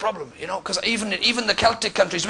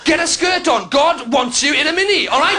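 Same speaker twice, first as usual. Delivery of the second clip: mock preacher shout; 3 semitones higher than usual.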